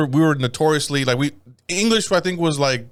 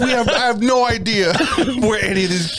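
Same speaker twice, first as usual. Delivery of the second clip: laughing aside; 8 semitones higher than usual. Retold or imitated. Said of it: "It's like".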